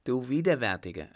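loud cry of disgust. Acted. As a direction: hurl the insult at him. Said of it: "rief sie".

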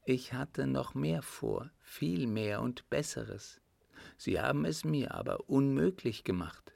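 countess explaining. Acted. Countess tells him she chose to help him, lightly voiced. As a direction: explain assuredly as the countess, pitched a little up.

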